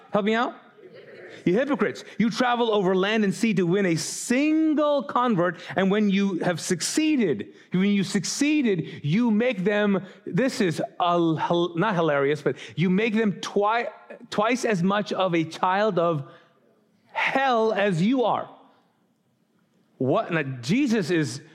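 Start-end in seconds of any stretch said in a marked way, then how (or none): 1.4-10.0 mildly heated scripture reading, pitched higher; fired up. Acted. Preacher voicing Jesus rebuking the Pharisees, mildly fired up. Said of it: "he was so fired up about it". 12.8-18.5 higher, slowing to land the final rebuke; mildly heated proclamation with weighty pauses; fired up. Acted. Preacher voicing Jesus rebuking teachers of the law, mildly fired up. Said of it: "he was so fired up about it".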